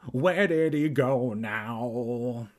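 drawn-out call after someone who left. A narrator's reading. Evan calls after Kermit running indoors, drawn-out calling. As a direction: call it out slowly, stretching each word. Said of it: "Evan called".

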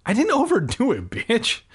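grumbled. Acted. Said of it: "I grumbled".

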